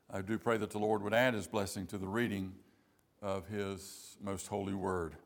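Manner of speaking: soft, low prayer, slowing at the end; hushed, reverent blessing. Real, not acted. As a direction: pray quietly, letting the voice sink. Short prayer after the reading.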